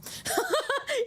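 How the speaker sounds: high giggle after a burp; a quick sheepish laugh; embarrassed laugh. Real, not acted.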